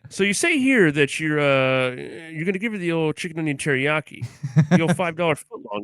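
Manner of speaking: mock interrogator. Host grilling co-host over subway jokes, lightly mock stern. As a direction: grill him like a mock prosecutor.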